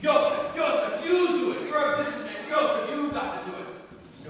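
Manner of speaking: high, loud urgent pleading crowd. Retold or imitated. Townspeople pleading for volunteers.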